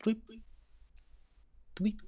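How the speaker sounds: short, high little drip noise; water drip sound. Acted. Game master showing players the dripping cave, imitated water drips. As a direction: imitate a single drop of water plinking.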